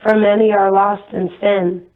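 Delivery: solemn, measured proclamation in short phrases; evenly paced prophetic message, like a recitation; prophecy delivery. Real, not acted. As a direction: deliver a divine warning, pausing between phrases.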